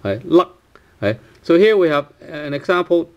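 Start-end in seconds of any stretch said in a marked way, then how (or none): 0.2-0.6 Luck stopped at the throat; unreleased final k. Shown as a demonstration. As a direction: hold the k back in Luck. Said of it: "without k".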